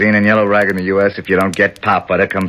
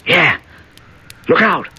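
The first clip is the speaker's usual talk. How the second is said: much higher, projected call; 10 semitones higher than usual. Acted. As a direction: project it up through the skylight. Calling up to Jake above.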